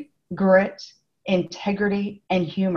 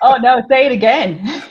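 delighted; 6 semitones higher, 6 dB louder than usual. Real, not acted. Delighted by the compliment.

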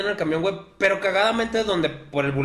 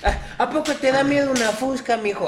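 higher, taunting, with a laugh; mocking tough guy; 7 semitones higher than usual. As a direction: taunt him like a thug.

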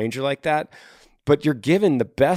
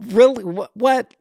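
incredulous; 10 semitones higher, 4 dB louder, slower than usual. Real, not acted. Disbelief at Matthew's claim.

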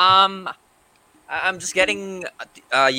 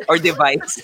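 laughing. Real, not acted.

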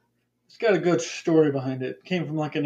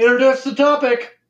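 louder, higher insistent demand; 7 semitones higher, 6 dB louder than usual. Real, not acted. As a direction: push the demand harder. Repeated demand, second insistent.

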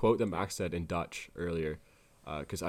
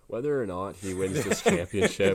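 louder, heated declaration; mock fired-up rant; 7 dB louder than usual. F1 fan riled by Twitter people, mock fired-up rant. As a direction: ham up the fan fury. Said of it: "the Twitter people are getting to me".

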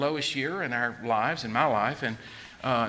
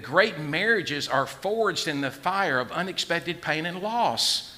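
slow emphatic; 3 semitones higher, slower than usual. Shown as a demonstration. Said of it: "you need to write that down somewhere".

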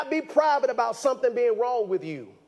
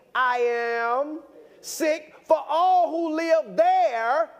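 slow, raised scripture reading; 4 semitones higher, slower than usual. Real, not acted. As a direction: read each word out slowly, with weight.

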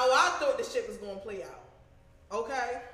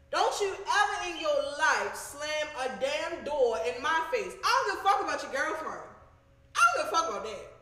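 louder, heated scolding; telling him off; 2 semitones higher, 4 dB louder than usual. Retold or imitated. Scolding the boyfriend who slammed the door, angry. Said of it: "I was so mad".

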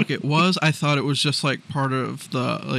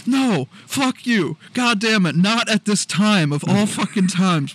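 outraged yell; 5 semitones higher than usual. Retold or imitated. Addressing the spider on her laptop.

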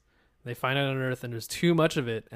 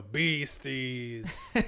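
mock Canadian. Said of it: "you think they go".

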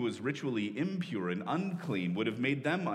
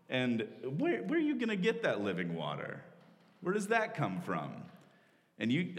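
incredulous. Retold or imitated. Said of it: "kind of incredulous".

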